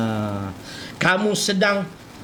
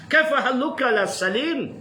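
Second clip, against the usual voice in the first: Arabic greeting; 2 semitones higher than usual. Shown as a demonstration. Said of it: "Kau cakap Arab pula".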